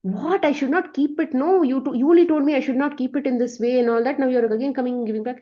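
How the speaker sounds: high, fast protest of disbelief; indignant surprise. Retold or imitated. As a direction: blurt it out, baffled and a bit offended. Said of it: "And now he's like".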